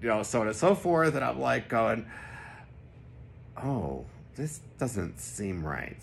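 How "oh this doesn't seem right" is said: soft, slow, dawning doubt; a quiet slow uh-oh to yourself; uneasy realisation. Retold or imitated. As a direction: let the worry creep in slowly.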